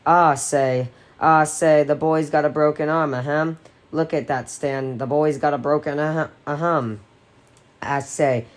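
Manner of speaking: lightly voiced blustering southern gentleman; pompous cartoon rooster, ahems and all; Foghorn Leghorn voice. Richie teasing Eddie about his arm in a light cartoon gentleman voice. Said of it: "grandly rolling sovereign gentleman voice".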